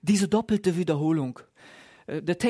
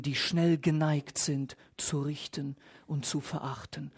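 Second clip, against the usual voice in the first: hushed confession; 4 semitones lower, 5 dB quieter than usual. Acted. Pastor confessing shared fault.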